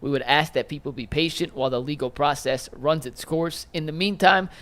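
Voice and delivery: measured, deliberate reading of a legal statement; formal statement read. Acted. Host reading attorney's statement to colleagues, formal read. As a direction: read it out as an official quote.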